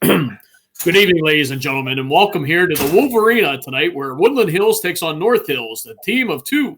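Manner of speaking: a hint of a booming sports announcer; broadcaster voice. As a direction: lay it on like a radio play-by-play man. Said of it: "do more of a voice like this".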